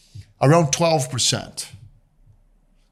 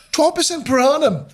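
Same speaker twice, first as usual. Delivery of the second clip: laughing disbelief; 12 semitones higher than usual. Real, not acted. Delighted at cheap money.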